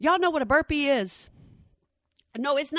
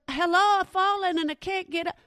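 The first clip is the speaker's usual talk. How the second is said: put-on raised, pleading old-person voice; life alert commercial; 7 semitones higher than usual. Quoting the life alert ad, high pleading caller. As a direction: mimic the frail caller in the ad. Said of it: "a life alert".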